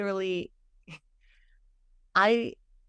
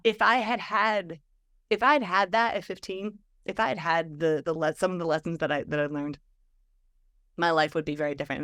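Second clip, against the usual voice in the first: choked up. Real, not acted. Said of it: "I'm gonna cry telling the story".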